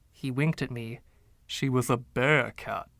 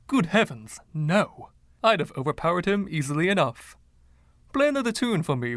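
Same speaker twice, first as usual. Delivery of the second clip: lightly voiced flamboyant old charmer, a touch higher; Freddie; 4 semitones higher, faster than usual. Freddie's voice in narration.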